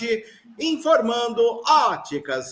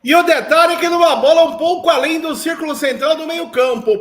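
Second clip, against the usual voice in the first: usual speaking voice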